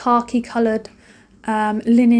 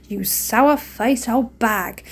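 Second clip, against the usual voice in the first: slow mock insult; much slower than usual. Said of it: "I was like".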